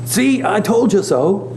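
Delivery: high, drawn-out I-told-you-so; smug told-you-so. Acted. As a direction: gloat slowly at being proved right. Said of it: "in a tone of voice as though".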